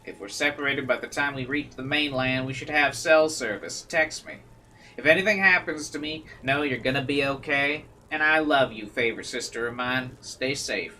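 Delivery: put-on light Southern country accent; mild Southern accent, gentle goodbye. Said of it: "going with this country accent".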